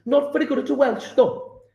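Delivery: Welsh accent. Shown as a demonstration. Teacher admits being not very good, attempted Welsh accent. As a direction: have a go at a shaky-grasp Welsh accent. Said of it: "try Welsh accent".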